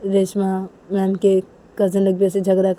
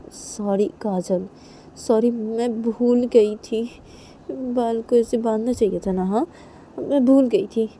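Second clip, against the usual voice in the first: drawn-out, slow apology; sheepish, slightly higher-voiced sorry; apologetic; 4 semitones higher, slower than usual. She excuses forgetting to tie her hair, apologetic.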